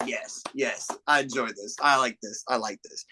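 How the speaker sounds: hushed, delighted whisper to himself; gleeful whisper. Retold or imitated. Viewer quietly relishing Val's silent jab, whispered. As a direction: savor it under your breath. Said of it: "And I was like".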